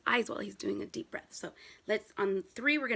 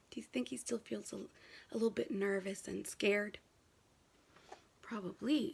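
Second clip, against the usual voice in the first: hushed; 3 semitones lower, 8 dB quieter than usual. Real, not acted. Teacher asking kids how the boy feels, whispered. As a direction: lean in and whisper.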